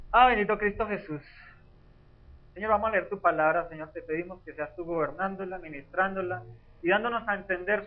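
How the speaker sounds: earnest spoken prayer to the Father. Real, not acted. Preacher praying before the congregation reads, fervent prayer. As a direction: pray over the reading, fervent but steady.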